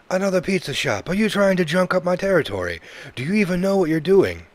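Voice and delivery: high, loud, rapid-fire mock Italian; terrible Italian accent. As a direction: rant in a hammed-up Italian accent. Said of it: "I'm doing a terrible Italian accent".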